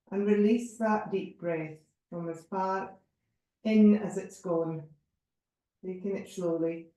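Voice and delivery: spacious meditation delivery with long pauses; measured yoga relaxation voice; guided body scan. Real, not acted. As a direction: guide each breath without hurry.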